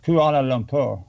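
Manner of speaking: "Kuala Lumpur" in his own foreign accent; own pronunciation demo. Shown as a demonstration. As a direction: show how you say "Kuala Lumpur". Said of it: "I say Ku".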